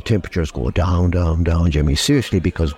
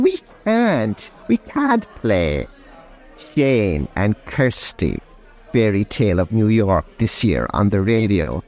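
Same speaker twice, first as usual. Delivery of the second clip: sarcastic; slower than usual. Acted. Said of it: "just a hint of sarcasm".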